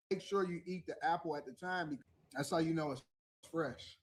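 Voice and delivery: talking with his mouth full; chewing while he talks. Real, not acted. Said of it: "Stop talking with your mouth full".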